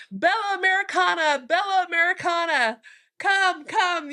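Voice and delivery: high, sing-song calls of admiring Italian men; Italian guys calling out. Retold or imitated. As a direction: call out to her like flirty guys in a café.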